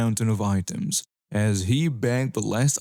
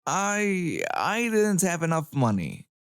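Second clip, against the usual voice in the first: sheepish; 6 semitones higher than usual. Acted. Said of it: "She says sheepishly".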